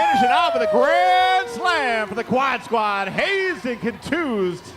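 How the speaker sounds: yelling the big play, high and loud; excited shout. Real, not acted. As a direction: shout the grand slam call. Derby play-by-play climax.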